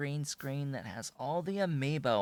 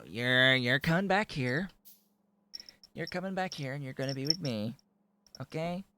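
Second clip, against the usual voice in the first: louder, higher scolding to the kitten; firm high call-back; 5 semitones higher, 5 dB louder than usual. Real, not acted. Streamer calls the kitten back off the bookcase, firm and loud. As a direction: call her back firmly.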